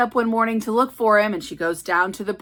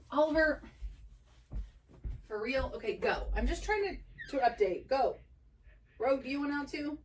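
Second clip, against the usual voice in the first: much softer, off to the side; aside to pets; 5 semitones higher, 11 dB quieter, faster than usual. Real, not acted. Owner asking her cats if they want out, soft aside. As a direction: drop the volume and talk to the cat.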